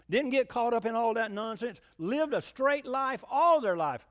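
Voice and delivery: building sermon fervour; preaching emphasis. Acted. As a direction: drive home each word of the straight life.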